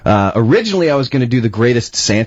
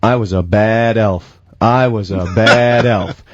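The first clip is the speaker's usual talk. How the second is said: mock sad elf; 2 semitones lower, slower than usual. Shown as a demonstration. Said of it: "standing there saying".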